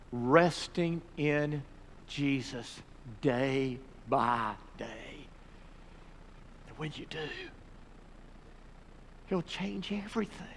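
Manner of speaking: soft, measured invitation with long pauses; hushed altar call. Real, not acted. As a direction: invite them softly, letting each phrase rest. Hushed altar call with bowed heads.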